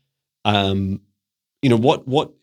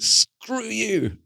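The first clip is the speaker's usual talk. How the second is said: defiant retort; 12 semitones higher than usual. Retold or imitated. Defying the fear troll, high playful screw-you. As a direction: brush the troll off with a playful jab. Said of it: "is like".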